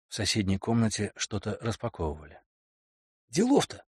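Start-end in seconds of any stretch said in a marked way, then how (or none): 3.3-3.8 smirking laugh. Acted. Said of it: "усмехнулся Келли".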